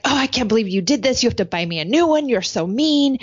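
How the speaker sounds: put-on mad teenager. Daughter blames mom and demands a new lotion, mad. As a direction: rush out a mock teen complaint. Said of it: "And so she's like".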